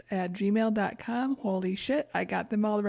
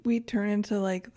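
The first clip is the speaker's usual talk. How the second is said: ordinary talk, nothing marked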